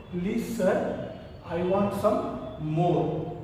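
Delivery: timid request, low and slowing on the last words; mildly acted nervous plea to a master; frightened. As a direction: plead meekly, drawing out the end. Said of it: "in a little frightened voice he said".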